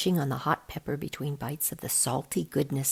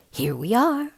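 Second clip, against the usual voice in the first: a touch higher, bright announcement; exclaiming; 7 semitones higher, 4 dB louder than usual. A narrator's reading. Spider-Woman shows the kids the Rainbow Road, exclaiming. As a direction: proudly present the spot. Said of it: "she exclaims".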